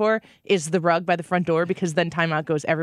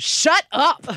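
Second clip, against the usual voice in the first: higher, louder bratty snap; bratty toddler; 8 semitones higher, 5 dB louder than usual. Retold or imitated. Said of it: "after she goes".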